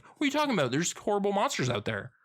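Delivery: high-pitched incredulous retort, imitated; mock incredulous protest. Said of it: "but he's like".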